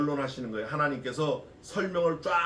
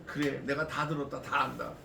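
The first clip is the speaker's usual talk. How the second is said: God's reassurance; 3 semitones lower, 4 dB quieter than usual. Acted. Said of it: "이거 한마디 하나님이".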